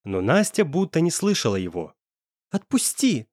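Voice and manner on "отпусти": a tense, hissed "let go" forced through clenched teeth; девушка цедит сквозь зубы, вырываясь; through gritted teeth. A narrator's reading. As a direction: spit it out through clenched teeth, straining to break free. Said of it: "Сквозь зубы цедила она".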